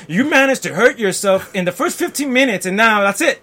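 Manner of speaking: loud, high mock kid voice; loud imitation of a disappointed seven-year-old; disappointed daughter. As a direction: voice her as a let-down little girl. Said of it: "She was like".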